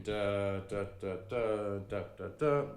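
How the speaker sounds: evenly spaced "Da, da, da"; even rhythm. Shown as a demonstration. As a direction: chant each "da" with steady, equal weight. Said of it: "try and really keep it even".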